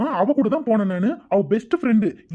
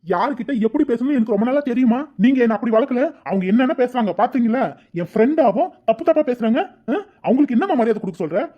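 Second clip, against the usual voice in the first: heated, slightly raised voice; indignant protest; 3 semitones higher than usual. Acted. Son protesting to mother about aunt, indignant. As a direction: argue back, hurt and angry.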